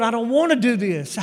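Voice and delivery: loud mock complaint; retold protest. Pastor telling the Lord he wants out, loudly protesting. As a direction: push back loudly, like a reluctant servant.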